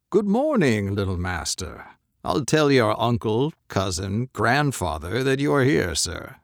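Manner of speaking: a fawning young clerk, mildly played; clerk's voice. Clerk greets the boy.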